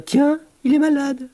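high sneering schoolyard jeer; mocking kid taunt. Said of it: "Ou bien".

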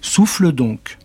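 plus aigu; sorcière. Acted. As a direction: offre la flûte. (la sorcière tend la flûte, aiguë)

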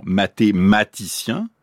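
mathématicien said slowly, mati brought out in the middle; mati picked out. Shown as a demonstration. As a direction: spell out mathématicien by ear, leaning on mati. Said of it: "Prenez les sons mati". (mathématicien, lentement, en détachant mati)

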